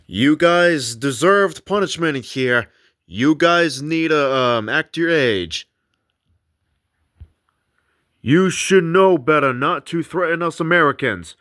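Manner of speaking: deliberate, emphatic challenge; taunting. Acted. Brady provokes the spirits in the room, taunting. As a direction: goad them with a firm scolding. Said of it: "because of Brady's taunt".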